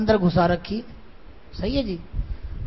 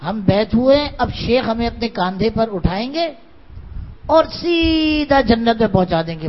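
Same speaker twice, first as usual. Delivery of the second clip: mocking wishful talk. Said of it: "لوگ یہ چاہتے ہیں کہ بس".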